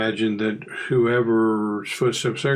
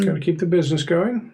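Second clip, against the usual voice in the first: Mr. Corbett voice; 6 semitones higher, faster than usual. Acted. GM voicing Mr. Corbett.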